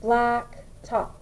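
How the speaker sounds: "Blacktop" in two drawn-out beats, Black, top; syllable by syllable. Shown as a demonstration. Teacher confirming two syllables, syllable by syllable. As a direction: break "Blacktop" cleanly between its two syllables. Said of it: "we have two syllables".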